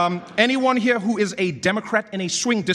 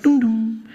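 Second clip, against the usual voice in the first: airport chime; 3 semitones higher, 4 dB louder than usual. Retold or imitated. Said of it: "She'll come on the pier and be like".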